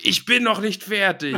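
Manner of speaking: laughing through the line. Real, not acted. Repeats punchline while laughing.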